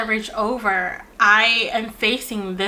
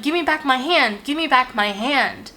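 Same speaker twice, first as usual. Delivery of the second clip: mock yell; 4 semitones higher than usual. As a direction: imitate a mild, urgent yell without full volume. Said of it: "yells that same sentence back at me".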